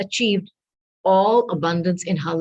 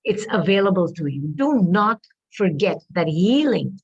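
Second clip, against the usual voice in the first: losing her voice. Real, not acted. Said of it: "And I'm losing my voice".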